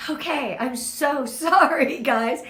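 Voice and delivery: emotional laugh, slow; embarrassed laughing apology; laughing through emotion. Real, not acted. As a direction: laugh it off while moved. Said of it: "gonna get so emotional".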